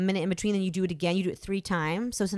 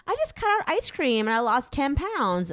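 higher-pitched, lightly mimicked friend; mock bragging friend; 6 semitones higher than usual. Actor mimics friends boasting about easy weight loss, mock breezy.

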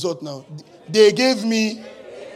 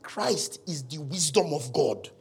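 slow, deliberate; 3 dB quieter, slower than usual. Shown as a demonstration. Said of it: "I don't know how to explain it".

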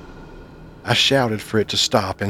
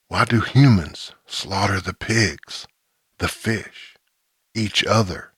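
slow eerie creature rasp. A narrator's reading. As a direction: drag each word out like something inhuman. Creature voice held.

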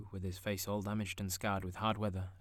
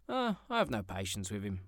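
impatient niece; 4 dB louder than usual. Acted. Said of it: "observed Scrooge's niece".

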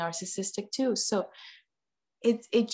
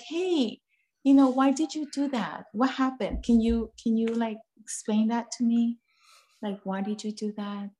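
gentle parent; 2 semitones higher than usual. Retold or imitated. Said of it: "instead of like".

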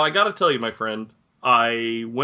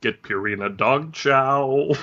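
mock ad voice; much slower than usual. Mock commercial.

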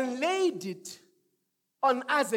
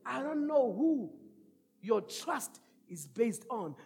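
softer, lower voice drifting away; quiet preaching; 6 semitones lower, 7 dB quieter than usual. Acted. Preacher brings it down softly to the church. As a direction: draw them in, hushed.

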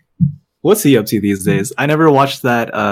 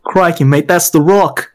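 put-on Australian accent; 4 semitones higher than usual. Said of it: "Steve Irwin".

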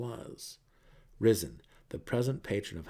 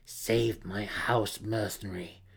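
growled; slower than usual. Acted. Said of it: "she growled".

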